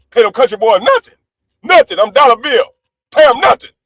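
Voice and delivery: gloating. Real, not acted. Triumphant chant of refusal.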